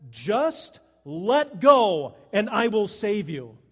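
loud, slow, weighty command; voice of God. Acted. God telling the man to let go, loud and slow. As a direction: boom it out slowly with long pauses. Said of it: "And God says".

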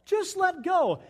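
high, loud, drawn-out urging; voice of God. Acted. God urging us to let go, calling out. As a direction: call it out slowly, high and insistent. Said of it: "God says".

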